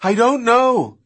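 high, loud frantic shout; high-pitched, urgent answer; shouted reply. A narrator's reading. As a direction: shout back over the engine. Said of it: "Kelly shouted".

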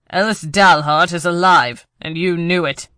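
loud, furious accusation; angry accusation. Acted. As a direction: slam the name down hard. Villain accuses her of lying.

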